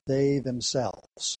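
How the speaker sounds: "they themselves" drawn out very slowly, leaning on each word; slow and weighty on "they themselves"; stress on they themselves. Shown as a demonstration. Preacher stressing "they themselves" to the congregation, slow and deliberate. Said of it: "is emphatic".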